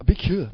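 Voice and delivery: "Be cool" said as Korean bikyeo; Korean pronunciation. Shown as a demonstration. Host teaches Korean phrase, "Be cool" as bikyeo. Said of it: "means get out of the way".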